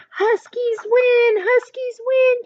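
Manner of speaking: very high, loud, slow victory cheer; triumphant chant. Acted. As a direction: celebrate the win with the team. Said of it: "cheered the team".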